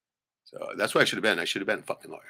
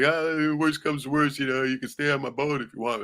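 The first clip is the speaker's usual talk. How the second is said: voicing his brother; 8 semitones higher, 5 dB louder than usual. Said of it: "It's like".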